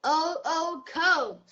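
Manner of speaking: put-on a shy child copying quietly; soft repeat. Shown as a demonstration. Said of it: "Can you say".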